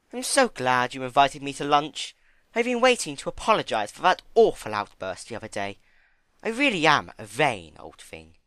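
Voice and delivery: Rarity. Acted. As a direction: gush it out grandly.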